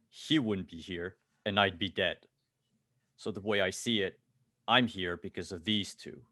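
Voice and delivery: loud, emphatic, deliberate confrontation; big guy standing firm. Acted. Big guy confronts a corpo for two friends, standing firm. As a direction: lay out the case with punched key words.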